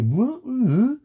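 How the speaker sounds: hammed-up teenager squawking at you; mock teenager grunts. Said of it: "making noises like a fucking teenager".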